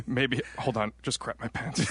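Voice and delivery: lightly voiced old man. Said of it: "my old man impression".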